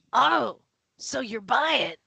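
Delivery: crusty sailor suddenly interested; lighting up at coin. Acted. Sailor hears there is coin, lights up and invites them in. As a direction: perk up at the promise of money. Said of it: "He lights up to".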